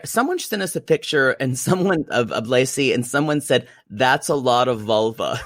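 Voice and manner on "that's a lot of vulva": said through laughter; giggling while quoting "That's a lot of vulva."; laughing quote. Retold or imitated. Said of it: "I laughed at the phrase".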